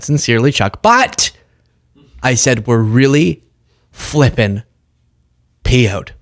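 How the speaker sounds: loose mock politician with laughs breaking in; half-hearted impression, halting between words; Chuck Schumer. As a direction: lightly imitate a senator making feeble threats. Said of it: "I can't even do his accent".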